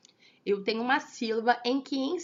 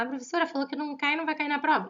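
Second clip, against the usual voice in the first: imitated student; 5 semitones higher, much faster than usual. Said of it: "Então, vai falar".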